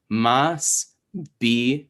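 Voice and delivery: "mas", a pause, then "bi"; syllable by syllable. Shown as a demonstration. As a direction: sound out "mas bi" in separate syllables, consonant leading. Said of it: "you're reading consonant vowel".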